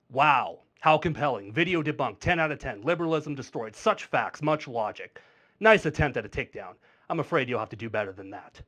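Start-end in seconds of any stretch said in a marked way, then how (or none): 0.1-6.8 deadpan mock praise; sarcastic. Real, not acted. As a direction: feign being impressed, dryly. Sarcastic praise of the weak reply.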